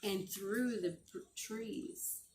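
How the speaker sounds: gentle storybook read-aloud; reading to children. Acted. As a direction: read it like a bedtime story to the class. Teacher reading a picture book aloud.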